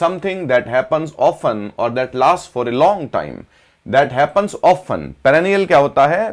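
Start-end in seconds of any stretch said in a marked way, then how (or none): 0.0-5.0 very slow, word by word, for students to write down; slow dictation pace. Shown as a demonstration. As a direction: spell it out slowly like dictating notes. Teacher dictates a definition slowly.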